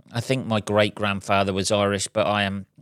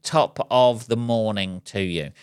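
put-on a slower go at a stock Irish accent, drawing out "Top of the morning"; slow Irish accent attempt. Vlogger trying his Irish accent for viewers on Saint Patrick's Day, slow mock Irish. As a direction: stretch it out in a hammy Irish accent. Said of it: "there's my attempt at an Irish accent".

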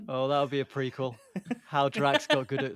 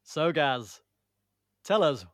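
punchy question, pausing after each short phrase; presenter's final take. Shown as a demonstration. Host putting the question to Gaz, punchy presenter delivery. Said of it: "I'm going one more".

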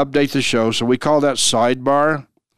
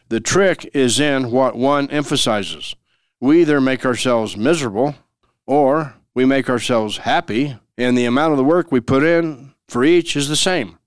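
quote reading. Real, not acted. Reads the quote of the day.

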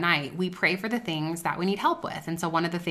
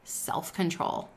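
slow, softer whispered Self-control; a gentle, slow whisper of Self-control; 7 dB quieter, slower than usual. Retold or imitated. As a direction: breathe it out like a quiet inner voice. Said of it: "the familiar whisper".

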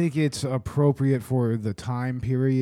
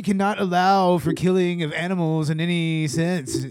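a touch higher, mock-indignant protest; lightly hammed-up outraged vegan; half-serious activist preaching for the bit; irritated vegan; 6 semitones higher, 3 dB louder than usual. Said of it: "You were supposed to play the irritated vegan".

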